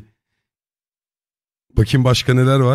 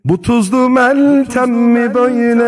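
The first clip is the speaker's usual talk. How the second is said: voice filter; 8 semitones higher, 4 dB louder, slower than usual. Pretend. Trying out a voice filter.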